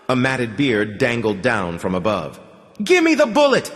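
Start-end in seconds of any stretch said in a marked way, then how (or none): 2.8-3.7 put-on loud, very high child's yell; a demanding kid shouting; little girl yelling for her bullet; worked-up shout. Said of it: "started getting worked up".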